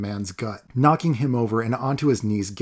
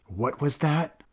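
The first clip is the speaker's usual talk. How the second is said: through gritted teeth; 4 semitones higher, slower than usual. Acted. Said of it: "through his gritted teeth".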